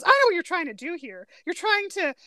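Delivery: acted-out complaint to his interrogators; sudden accusation. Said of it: "he suddenly goes".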